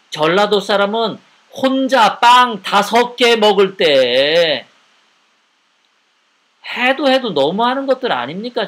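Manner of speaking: indignant outburst. Real, not acted. Indignant accusation at climax.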